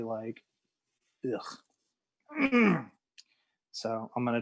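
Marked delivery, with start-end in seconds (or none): 1.2-2.8 ugh. Real, not acted. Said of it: "my voice is completely".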